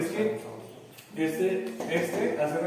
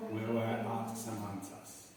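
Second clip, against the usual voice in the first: slow model phrase; 5 semitones lower, 8 dB quieter, much slower than usual. Shown as a demonstration. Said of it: "Nosotros estuvimos".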